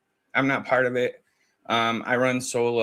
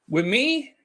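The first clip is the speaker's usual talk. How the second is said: incredulous squeak; 13 semitones higher than usual. Retold or imitated. Incredulous retold reply.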